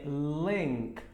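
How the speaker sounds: "link" with a closed E-like vowel, lenk; correct link. Shown as a demonstration. Teacher correcting "link" to a closed E vowel. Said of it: "Link não é link".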